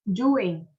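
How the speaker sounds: "Doing" with a lengthened oo; drawn-out U. Shown as a demonstration. Teacher modelling for students, "Doing" with a long oo. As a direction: stretch the oo in "Doing" a little. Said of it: "bạn đọc kéo dài chút xíu".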